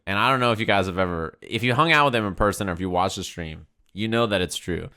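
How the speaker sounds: ordinary talk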